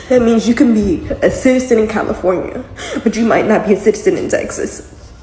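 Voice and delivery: a bitter laugh breaking into crying; half laugh, half sob at the absurdity; real tearful laugh; laughing through tears. Real, not acted. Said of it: "I'm trying not to cry".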